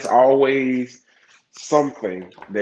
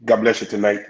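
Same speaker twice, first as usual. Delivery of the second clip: church voice; 3 dB louder, much faster than usual. Pretend. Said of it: "that's my church voice".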